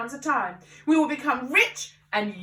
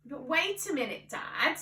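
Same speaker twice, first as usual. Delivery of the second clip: quiet plea; 2 semitones higher, 6 dB quieter than usual. A narrator's reading. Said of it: "George said again".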